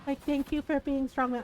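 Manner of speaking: slow, simpering imitation of the lady; lightly voiced fawning woman; slow mock gushing; mocking a commenter. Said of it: "one lady was like".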